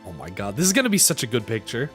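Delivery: ordinary talk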